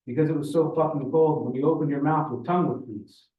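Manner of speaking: put-on older Russian man reminiscing; Ivan, Russian storyteller. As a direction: tell it with a Russian accent. Voices Ivan giving the punchline.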